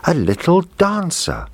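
put-on a girl squealing over a new doll; happy cry. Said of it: "cried out happily".

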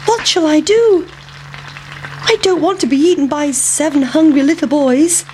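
high squeaky fretting voice; worried pancake. A narrator's reading. Pancake afraid of the hungry boys, squeaky fretting. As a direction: fret like a tiny frightened pancake. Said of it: "thought the pancake".

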